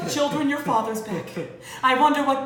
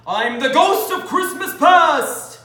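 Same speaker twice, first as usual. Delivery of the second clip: slow, loud spooky announcement; spooky ghost voice; 4 semitones higher, 5 dB louder, much slower than usual. Acted. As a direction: echo it like a ghost.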